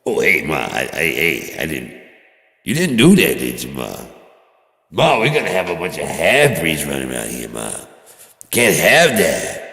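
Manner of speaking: mock outraged son. Son mock-accuses mom again.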